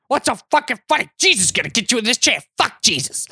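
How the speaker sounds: quick imitation of a raving stranger; hurried mock-crazed challenge; ranting man. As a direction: round on someone who might be laughing. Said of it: "he's gonna churn and be like".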